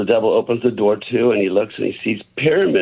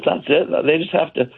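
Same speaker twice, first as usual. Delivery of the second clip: higher-pitched, questioning joke character; lightly voiced man in disbelief, ending higher; joke's incredulous man; 5 semitones higher than usual. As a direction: raise the pitch into a surprised question. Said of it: "he says".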